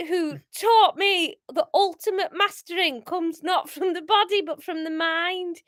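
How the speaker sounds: impassioned amateur Scouse monologue, near giggles; hammed-up Scouse. Paul refusing to give up his turtles, hammed-up Scouse. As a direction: swear it solemnly in bad Scouse. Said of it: "Um, Scouse".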